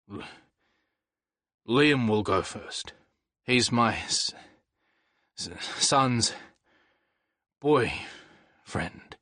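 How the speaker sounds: slow, stumbling hesitant words; halting stammer. Acted. Father admitting his son's boyfriend, stammering slowly. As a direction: fight to get each word out. Paddy stammers accepting Liam.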